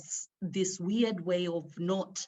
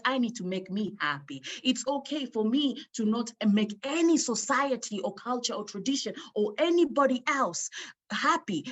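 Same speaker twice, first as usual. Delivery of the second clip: louder, higher declaration of freedom; standing up; 4 semitones higher, 4 dB louder than usual. Retold or imitated. Woman standing up to her husband, louder and higher. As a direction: declare it, rising in strength. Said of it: "until I stood up and say".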